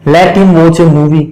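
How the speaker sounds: each word spaced out slowly; slow dictation. Shown as a demonstration. Teacher dictating an example slowly to the class. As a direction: read it out slowly for students to copy. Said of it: "teacher dictating an example".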